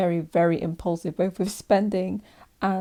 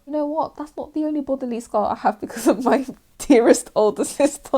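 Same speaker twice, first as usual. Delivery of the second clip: sarcastic; 7 semitones higher, 7 dB louder than usual. Acted. Sarcastic jab at older sister.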